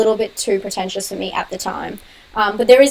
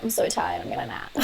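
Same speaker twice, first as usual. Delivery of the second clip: imitating exhaustion, low and soft; mock tiredness; 9 semitones lower, 9 dB quieter than usual. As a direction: let the voice sink into a sleepy, voiceless mumble. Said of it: "then I get home and I'm like".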